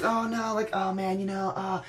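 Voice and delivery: mock torn, then smug laugh; agonized Bayley. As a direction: fake anguish then laughing refusal. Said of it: "Bayley looks all agonized".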